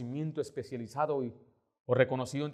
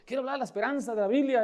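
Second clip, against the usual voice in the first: high appeal building louder and faster; insistent pleading; 6 semitones higher, 5 dB louder than usual. Retold or imitated. Pastor trying to make Esperanza listen, rising insistent plea. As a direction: keep pleading to get a word in. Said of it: "Yo trataba".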